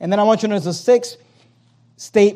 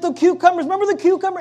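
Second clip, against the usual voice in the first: grumbling Israelites; 10 semitones higher, faster than usual. Retold or imitated. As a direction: mimic people pining for garlic. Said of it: "They're like".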